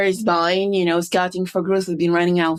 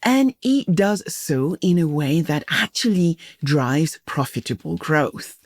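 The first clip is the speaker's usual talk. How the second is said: measured, slightly lower scripted host read; podcast intro read; 5 semitones lower than usual. Acted. Host introducing an insurtech guest to listeners, scripted intro read. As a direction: introduce the guest like a prepared announcer.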